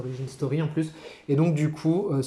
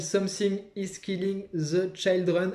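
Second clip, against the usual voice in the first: clumsy English accent; 4 semitones higher than usual. Real, not acted. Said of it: "avec mon accent anglais tout pourri".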